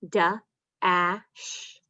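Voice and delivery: "Wa-ile" split into onset and rime; sounding out. Shown as a demonstration. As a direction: segment the word for the kids. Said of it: "Let's try this one".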